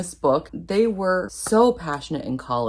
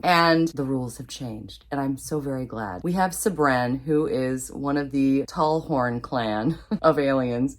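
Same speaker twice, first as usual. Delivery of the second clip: ordinary talk, nothing marked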